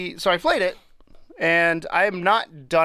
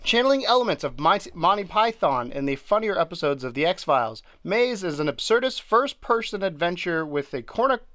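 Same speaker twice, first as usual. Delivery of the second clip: reading the blurb; 2 semitones higher than usual. Shown as a demonstration. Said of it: "That's the official definition of it".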